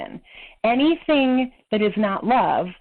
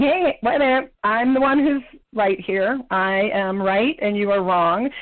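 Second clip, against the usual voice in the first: lightly voiced indignant know-it-all, insisting; a touch of smug certainty, slowing to the end; self-righteous voice. Voicing her self-righteousness inside her head, mildly indignant. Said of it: "self-righteousness coming up and saying".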